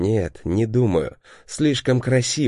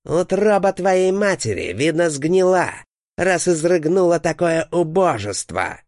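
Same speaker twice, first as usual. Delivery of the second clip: inhuman furious voice; 7 semitones higher than usual. A narrator's reading. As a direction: shout it like an eldritch horror raging at its son. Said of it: "кричит он".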